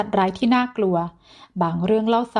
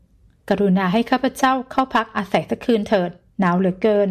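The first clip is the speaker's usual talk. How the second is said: put-on pleading old man. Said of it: "ชายชราร้องว่า".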